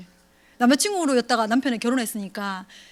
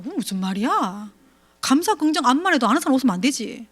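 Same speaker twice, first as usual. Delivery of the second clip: dismissive doubt. Retold or imitated. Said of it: "그렇게 생각하시잖아요".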